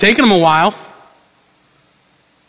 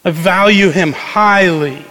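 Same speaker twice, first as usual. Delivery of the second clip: tender, precious; 2 semitones higher than usual. Retold or imitated. Centurion tenderly telling of his slave boy. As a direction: hold the boy dear in your voice. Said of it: "This is a centurion who says".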